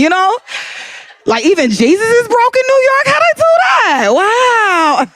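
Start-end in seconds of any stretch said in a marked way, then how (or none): 1.2-5.1 high laughing shout of disbelief; incredulous laughing shout. Real, not acted. Comic to the crowd about broke Jesus, shouting in laughing disbelief.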